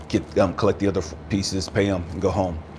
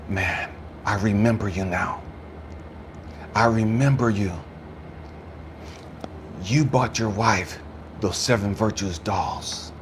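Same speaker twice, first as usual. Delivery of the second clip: slow, tender retold words; heartfelt recollection; 6 dB quieter than usual. Store man remembering the widower's gift, slow and heartfelt. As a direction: let each phrase land gently, with long pauses.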